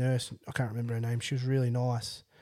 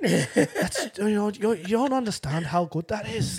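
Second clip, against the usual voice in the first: higher-pitched imitation of a Scottish nurse; Scottish accent; 5 semitones higher than usual. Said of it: "do it in his accent".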